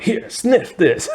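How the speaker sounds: high, slow, laughing through the offer; mock high offer. A student pushing the drug pen, laughing. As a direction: dangle the pen and crack up. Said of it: "and he's like".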